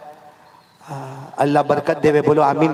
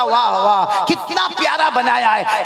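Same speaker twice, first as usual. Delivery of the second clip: drawn-out admiring exclamation, lifting high; savouring praise; 5 semitones higher, slower than usual. Acted. Husband tastes biryani to praise his wife, gushing. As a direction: praise the dish slowly and lavishly.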